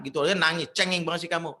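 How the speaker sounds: acted impatient motherly telling-off; nagging mother. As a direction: belittle a crying child. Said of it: "tiba-tiba datang ngomel".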